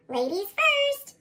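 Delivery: high, slow, over-polite offer; mock gallant. Lance dodging the test, slow fake-polite. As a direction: overdo the politeness to dodge. Leaf makes excuses not to fall.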